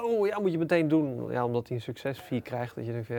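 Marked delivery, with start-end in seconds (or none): 0.0-1.3 higher, mildly hammed-up enthusiastic urging; mock eagerness. Adviser pushing a founder to act at once, mock eagerness. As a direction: play an all-too-keen adviser. Acting an overeager, self-interested adviser.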